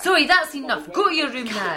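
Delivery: a stern mum cutting her daughter off; firm scolding. Acted. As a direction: raise your voice and lay down the law.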